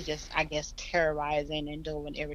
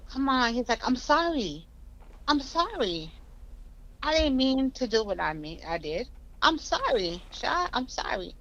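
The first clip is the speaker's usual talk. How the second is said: imitating her ex's pleading voice, pitched higher; pleading apology; 7 semitones higher than usual. Retelling her ex begging sorry over the phone, mock pleading. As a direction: beg forgiveness in a mock higher voice. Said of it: "And he's like".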